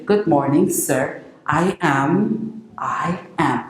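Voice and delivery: a respectful good morning to the boss; polite formal greeting. Shown as a demonstration. Meeting the boss, polite formal greeting. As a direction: greet your superior properly. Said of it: "And then you say".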